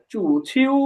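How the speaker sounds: চু and ছিউ both gliding upward; rising tones. Shown as a demonstration. Teacher confirms student's attempt, modelling চু and ছিউ with rising tones. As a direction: give চু and ছিউ each a rising tone. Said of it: "দুইটাই rising টোনে".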